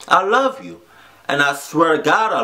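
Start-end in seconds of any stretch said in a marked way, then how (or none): 0.1-0.8 I love you said high and earnest; reaching out to viewers who feel unloved; heartfelt. Real, not acted. Sincere emotional vlogger telling viewers she loves them. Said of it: "I'm getting emotional".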